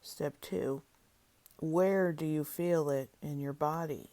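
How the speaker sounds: measured step-by-step prompts with long silences between; guided imagery reading. Acted. Leader guiding listeners through an inner peace process, deliberate instructional reading. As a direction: read each prompt out clearly, then leave room to feel.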